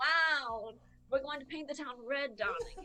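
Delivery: put-on fancy old-person voice. Acting out fancy old people offering each other sweet cereal: imitating fancy old people. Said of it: "they're like".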